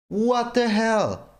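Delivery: drawn-out what the hell; slow fed-up complaint to the game; slow outrage. Real, not acted. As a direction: stretch the words in disbelief. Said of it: "I'm freaking salty right now".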